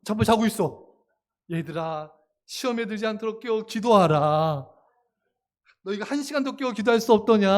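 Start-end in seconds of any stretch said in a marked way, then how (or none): 1.5-7.5 loving rebuke. Acted. Jesus to his sleeping disciples, loving rebuke. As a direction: chide them as Jesus, lovingly but firmly. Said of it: "너무나 사랑의 책망".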